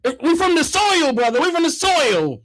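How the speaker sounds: lightly hammed-up philosopher; mock philosophizing. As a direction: imitate a self-important brother stretching each phrase. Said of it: "he was philosophizing".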